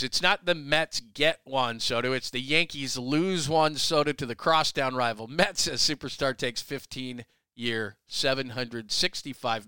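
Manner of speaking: slow, deliberate headline read. Shown as a demonstration. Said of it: "New York Daily News".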